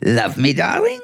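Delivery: a cat begging sweetly; cat asking for love. Acted. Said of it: "Things like".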